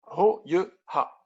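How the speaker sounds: Ro Yeu Ha, slowly, syllable by syllable; nom vietnamien approximatif. Real, not acted. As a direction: repeat Ro, Yeu, Ha slowly as a careful foreigner. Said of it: "pardonnez-moi mon accent". (Ro Yeu Ha, lentement détaché)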